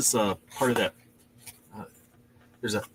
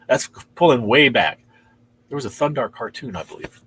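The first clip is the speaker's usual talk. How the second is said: ordinary talk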